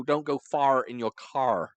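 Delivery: slow imitation of American R sounds; mock American accent. Mimicking an American friend, mock American accent. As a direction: tease with a drawn-out American accent. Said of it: "that's how you sound".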